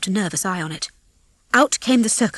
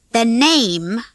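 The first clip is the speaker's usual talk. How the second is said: slow and deadly; 3 semitones higher, 5 dB louder than usual. Acted. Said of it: "in a slow and deadly voice".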